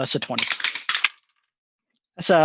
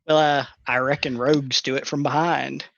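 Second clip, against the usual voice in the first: put-on casual Texan accent. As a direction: deliver it like a Texan. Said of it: "say this in a Texan accent".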